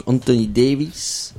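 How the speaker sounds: Anthony Davis in a mock English accent; self-mocking English accent on a name. Shown as a demonstration. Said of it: "grâce à mon magnifique accent anglais".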